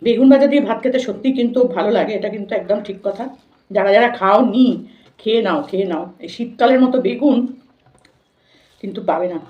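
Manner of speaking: ordinary talk, nothing marked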